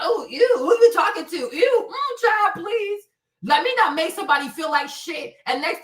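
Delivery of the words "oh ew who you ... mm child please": high, scornful "ew, who you talking to"; disgusted brush-off. Retold or imitated. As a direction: sneer at the guy's compliment. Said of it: "I never said, like".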